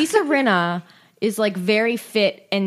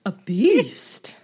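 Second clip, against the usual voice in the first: mock outrage. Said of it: "And she goes".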